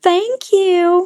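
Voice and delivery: put-on Texan accent, pitched very high. Imitating a TV cop from Texas saying thanks: imitating a Texan accent. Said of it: "I don't have a Texan accent".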